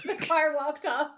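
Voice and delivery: mock-puzzled repeat of the slip; teasing echo. Echoing the co-host's slip, teasing. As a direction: parrot it back in playful disbelief.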